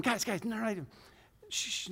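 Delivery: put-on soft, hushed shushing of the kids; retold shushing. Dad in the car shushing the teenagers, softly. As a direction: hush them down softly. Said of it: "I keep telling them".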